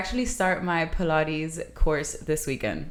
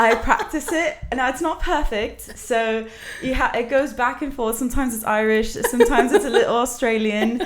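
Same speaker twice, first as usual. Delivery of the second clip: higher-pitched, amused British accent; 5 semitones higher than usual. Shown as a demonstration. Explaining to the host her imperfect practiced accent, British accent. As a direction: keep up a playful British accent. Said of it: "I can speak in it".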